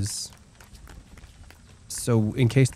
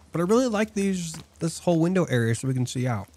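eating while talking; words round a bite of steak; mouth full; 4 semitones higher, 3 dB quieter, faster than usual. Real, not acted. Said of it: "Don't talk with your mouth full of steak".

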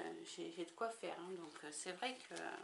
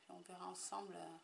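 ordinary talk

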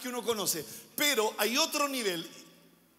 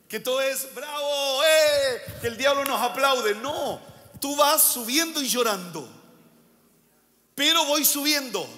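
rising preaching fervor; 3 semitones higher, 4 dB louder than usual. Real, not acted.

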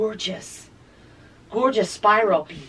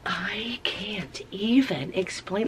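awed whisper; 6 dB quieter, slower than usual. Real, not acted.

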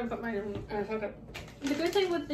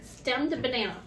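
talking while chewing; mouth full. Real, not acted. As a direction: say it around a chewy candy. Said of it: "I am chewing".

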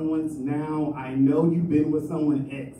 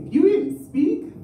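drawn-out, much higher punchline setup; slow and high; 14 semitones higher, 5 dB louder than usual. Acted. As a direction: stretch it out, pitched way up. Punchline build, slowed and high.

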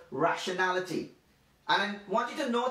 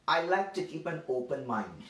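mock quote; 5 semitones lower than usual. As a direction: say it like a smug know-nothing, half-teasing. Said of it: "so they would say things like this".

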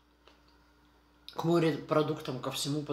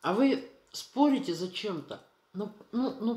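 speaking between bites; talking while chewing; 6 semitones higher than usual. Real, not acted. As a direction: mouth partly full of food. Seen 2: Bite taken at -1; lips pressed, jaw working while talking.

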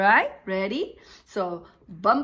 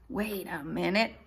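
mock confusion. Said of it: "Look at my face".

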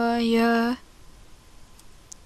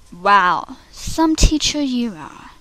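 dry sarcasm; slower than usual. Acted. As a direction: keep the sarcasm muted. Audition take, drier jibe.

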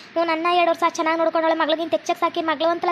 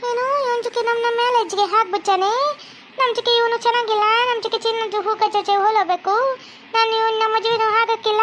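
put-on higher, broken Kannada with a Chinese accent; indignant girlfriend in a Chinese accent; Chinese girl accent; 4 semitones higher than usual. Chinese girlfriend refuses the marriage, in an indignant Chinese accent.

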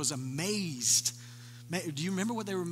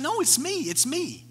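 insisting; 10 semitones higher, 5 dB louder than usual. Retold or imitated. Blind man insists it's him.

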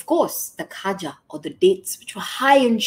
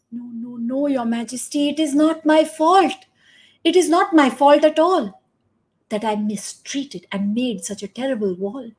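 put-on higher, flustered old workman; flustered denial; 5 semitones higher than usual. Bricklayer protests to the king, higher and flustered. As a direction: protest your innocence in a fluster.

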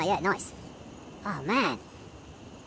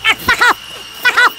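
panicked yelling; 7 semitones higher, slower than usual. Real, not acted. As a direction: shove it away with your voice. Monster grabs him.

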